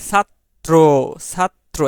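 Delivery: ছাত্র broken as "sat... tro"; syllable-split demo. Shown as a demonstration. Teacher showing the doubled t, split "sat-tro" for ছাত্র. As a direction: close on the t, pause, then say "tro" in ছাত্র. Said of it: "একবার সাত উচ্চারণ করতেছি".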